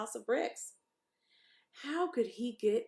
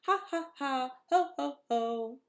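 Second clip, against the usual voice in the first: high, loud mocking laughter; high laughing pigs; 6 semitones higher, 7 dB louder than usual. A narrator's reading. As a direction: laugh it up, carefree. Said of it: "laughed the two little pigs again".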